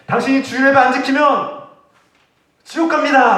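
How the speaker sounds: high, loud preacher's warning of hell; mock threat. Pastor warning churchgoers who skip Sunday service, hammed-up threat. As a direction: threaten the congregation from the pulpit. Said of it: "라고 협박하지도 않았어요".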